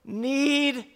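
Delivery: a high, loud, desperate scream, word by word. Retold or imitated. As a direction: scream it out, drawn apart in panic. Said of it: "And I screamed it".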